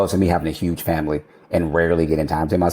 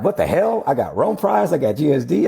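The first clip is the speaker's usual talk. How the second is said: excited; 8 semitones higher than usual. Retold or imitated. Realizing he swept the prizes.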